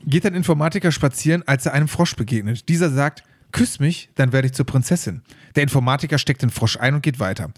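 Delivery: measured read-aloud storytelling voice; joke reading. Acted. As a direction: read the joke out evenly, phrase by phrase. (Witz vorlesen)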